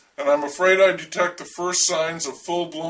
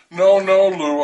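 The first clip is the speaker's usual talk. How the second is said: hasty loud protest; 2 semitones higher, 7 dB louder, slower than usual. Acted. Friend jumping in to protect self.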